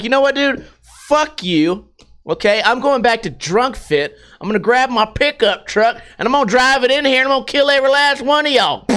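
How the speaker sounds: hammed-up angry threat, speeding up; mock furious rant. Mock-raging at the gym staff, fast angry threat. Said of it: "he was like".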